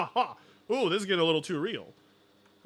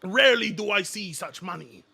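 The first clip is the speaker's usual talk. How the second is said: mock greedy voice; 3 dB louder than usual. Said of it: "I think to myself".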